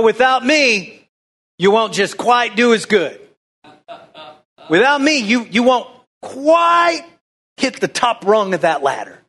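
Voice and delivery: lightly hammed-up wrong reading; mock voice of own flawed logic. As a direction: play the flesh reading the verse wrong. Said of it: "want to read that verse like this".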